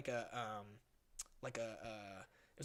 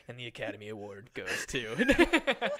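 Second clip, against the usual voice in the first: loud, slow presenter build-up; mock awards announcer; 3 semitones lower, 6 dB louder, slower than usual. Teasing the lady's big performance, mock awards announcer. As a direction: announce it grandly, in jest.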